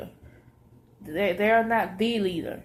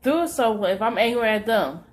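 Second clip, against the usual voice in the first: voicing the Lord; 6 semitones higher, 4 dB louder than usual. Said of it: "And he says".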